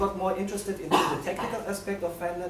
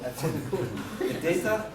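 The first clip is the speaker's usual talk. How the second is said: laughing while talking; 2 semitones higher than usual. Real, not acted. Presenter recounting the broken app to the audience, laughing. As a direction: laugh breaking into the words. Amused retelling of demo failure.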